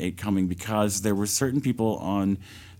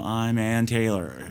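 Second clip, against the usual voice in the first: slow, dry announcer; dry radio host; slower than usual. Retold or imitated. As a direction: read it dry like a news host. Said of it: "she's very dry".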